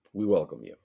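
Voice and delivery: candy in mouth; mouth full. Real, not acted. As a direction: talk around a candy. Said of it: "already having trouble speaking".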